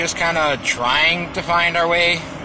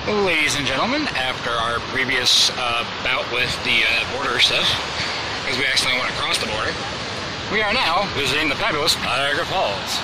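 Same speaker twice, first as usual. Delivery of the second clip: game show host; 4 semitones lower than usual. Acted. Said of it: "sounded like a game show host".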